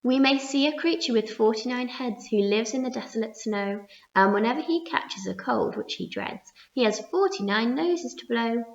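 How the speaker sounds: a lightly sung-song poem recital; rhyming verse. Acted. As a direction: bounce along the rhyme.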